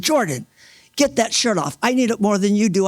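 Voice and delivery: re-enacted emergency command; urgent retold command. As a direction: order him to act right now. Retold urgent order to Jordan.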